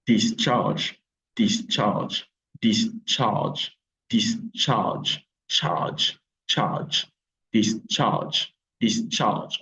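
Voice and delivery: "Discharge" split evenly into DIS and CHARGE; model pronunciation. Shown as a demonstration. Teacher illustrating pronunciation for learners, "discharge" as two distinct syllables. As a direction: separate both syllables of "discharge" clearly. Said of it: "La prononciation est bien illustrée".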